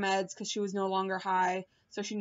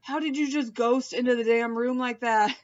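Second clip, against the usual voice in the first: startled, louder mock exclaim; playful shocked outburst; 3 semitones higher, 4 dB louder than usual. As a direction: act spooked by the sudden appearance. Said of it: "and I was like".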